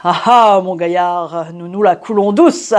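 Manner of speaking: sly, amused ribbing with a lifted ending; knowing teasing air. Acted. Concierge greeting the tenant home at dawn, knowing and teasing. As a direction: tease him like someone who knows what he's been up to. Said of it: "d'un petit air en homme qui dit".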